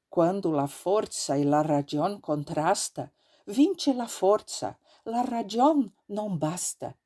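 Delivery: slow, declaiming anarchist maxim in Italian; Italian proverb declaimed in father's tone; father's declamation. Retold or imitated. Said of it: "com a mesma entonação com que havia aprendido".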